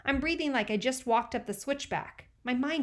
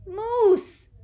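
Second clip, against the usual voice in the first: high, loud call; 12 semitones higher, 9 dB louder than usual. A narrator's reading. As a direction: call his name sharply. Teresa calls.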